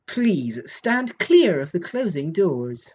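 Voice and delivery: slow, deliberate lift announcer impression; lift announcement voice. Shown as a demonstration. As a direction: imitate a recorded elevator announcement, spaced out slowly. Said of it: "the worst Lift Voice impression of the day".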